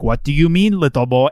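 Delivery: lightly mimicked Schwarzenegger Austrian accent; Arnold accent. Host mimics costumed dad answering his son, Austrian accent. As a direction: imitate an Austrian strongman talking to a child. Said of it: "only person with that accent".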